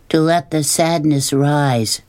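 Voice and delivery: lightly rhythmic, drawn-out recital; reciting like poetry. A narrator's reading. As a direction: repeat it like a line of verse. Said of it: "as if they were part of a poem".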